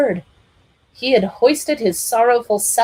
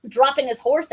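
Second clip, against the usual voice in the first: ordinary delivery, nothing marked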